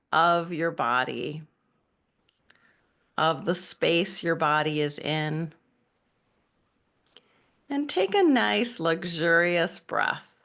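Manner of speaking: unhurried meditation guide with long pauses; guided meditation. Acted. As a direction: ease them into breathing, leaving space between phrases. Begins leading the meditation.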